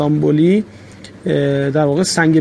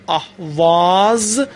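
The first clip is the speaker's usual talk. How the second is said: slow demo; much slower than usual. Shown as a demonstration. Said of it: "با حرف صدا دار آخر اهواز".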